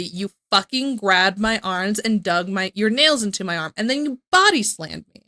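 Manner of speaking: a retold angry outburst, half-acted; angry retort. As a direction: read it like she's fed up and furious. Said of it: "which is why Emily responds so angrily".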